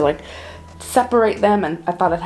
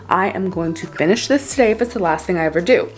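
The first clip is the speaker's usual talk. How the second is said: too much caffeine; 4 dB louder than usual. Real, not acted. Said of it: "I'm wired right now".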